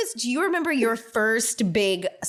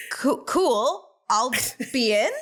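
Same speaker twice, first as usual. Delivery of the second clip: halting, pretend-casual yes with gaps; mock hesitant agreement; 2 semitones higher than usual. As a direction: agree haltingly, as if out of your depth. Retells stunned reply to evacuation order.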